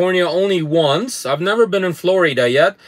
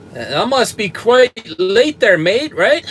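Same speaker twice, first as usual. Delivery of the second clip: put-on slow, playful stab at an Australian accent; attempted Australian accent; 3 semitones higher, slower than usual. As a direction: try Australian, drawn out and not quite right. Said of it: "I can never say it the way they say it in Australian".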